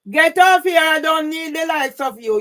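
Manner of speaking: real shouting at a heckler; real angry shout. Real, not acted. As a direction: yell them off the stream in real anger. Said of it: "Madam, please stop shouting".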